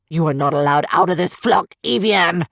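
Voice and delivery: roaring. A narrator's reading. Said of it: "Nishanu roared".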